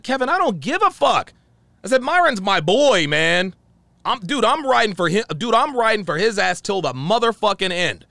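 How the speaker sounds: emphatic, worked-up retelling; heated. Retold or imitated. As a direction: replay defiant loyalty to a friend. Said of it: "I was heated and I was upset".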